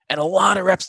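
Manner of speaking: ordinary talk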